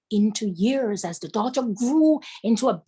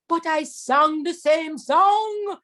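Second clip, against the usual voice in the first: tiger protesting; 6 semitones higher, 3 dB louder, slower than usual. Acted.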